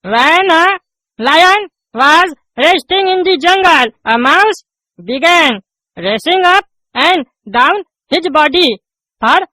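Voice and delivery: drags out each English word; slow halting reading. Acted. Pupil reading aloud to the teacher, very slow. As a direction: reads word by word like a struggling pupil.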